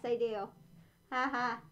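talking inside fursuit head; through a costume head. Real, not acted. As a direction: voice muffled inside mask. Seen 3: Full fursuit head covers face throughout; references show her unmasked.

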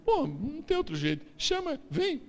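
very high, very loud triumphant cry; huge joyful outcry; ecstatic shout. Acted. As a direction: shout it like you found the king. Samuel cries out at David.

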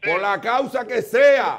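gritando y alargando las palabras; grito lento. Real, not acted. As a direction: lo corta con un grito lento. Discusión acalorada con el llamante. (grita al que llama para imponer su punto)

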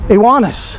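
"Ioannis" pronounced ee-WAH-nis; pronunciation demo. Shown as a demonstration. Teacher repeats the unfamiliar Greek name, pronunciation demo. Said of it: "that doesn't even sound right".

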